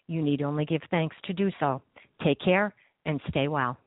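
smooth broadcast outro voice; radio host read. Acted.

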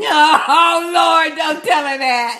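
laughing protest. Real, not acted. Teasing about the accent compliment.

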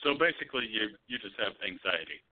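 mock dismissive doctor. Friend pretending to be one of those doctors, mock dismissive. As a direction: deliver a teasing mock diagnosis. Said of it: "pretending to be one of those doctors".

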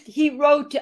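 clearing the throat mid-sentence; choking on a drink. Real, not acted. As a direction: cough then words, recovering. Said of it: "went down the wrong pipe".

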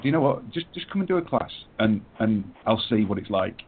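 tossing off a shrugging invitation; offhand gym owner. Retold or imitated. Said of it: "and he went".

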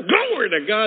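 high, loud shout of praise; retold praise shout. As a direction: call it out loudly in worship. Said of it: "And I'm shouting".

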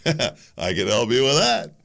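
slow, knowing dealer's offer with a laugh; a slick dealer who has just the thing; drug dealer. Retold or imitated. Drug dealer to a customer who's out of money, slow and slick. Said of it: "It's like the drug dealer".

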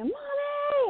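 put-on high sing-song call of a child; calling mommy. Mother retelling her daughter calling Mommy, high child's call. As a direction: call out like a little girl from the other room.

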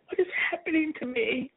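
tearful cry of despair. Retold or imitated. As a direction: cry it out through tears. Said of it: "I cried out".

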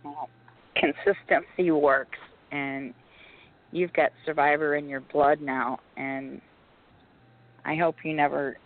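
hoarse voice. Real, not acted. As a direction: voice almost gone, hoarse and strained. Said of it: "my voice is gone tonight".

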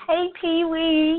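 bright, high hello to a friend; excited greeting. Real, not acted. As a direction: call out a happy hello. Greeting a joining viewer.

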